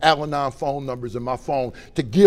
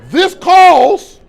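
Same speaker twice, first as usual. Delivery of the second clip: slow, much higher and louder, gloating; gleeful drunk voice; 11 semitones higher, 14 dB louder, much slower than usual. Retold or imitated. Past drunk self in the cardiac unit, slow gleeful crowing. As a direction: savor the word celebration like a treat.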